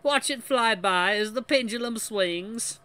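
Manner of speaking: put-on high, slow botched French accent; failed French accent. The speaker reciting lyrics as speech, botched French accent. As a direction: keep up the dubious mock French. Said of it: "I'm gonna keep doing it".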